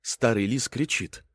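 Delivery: usual speaking voice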